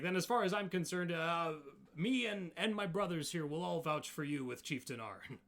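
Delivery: loud, emphatic challenger making a promise; emphatic Goliath. Acted. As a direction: declare the stakes boldly for the whole group.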